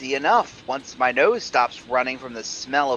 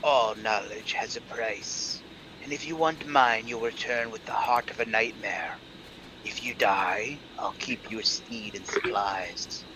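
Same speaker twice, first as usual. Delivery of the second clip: sneering panto villain; 4 semitones lower, 6 dB quieter than usual. Acted. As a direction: gloat down at them like a wizard. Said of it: "as he gloats".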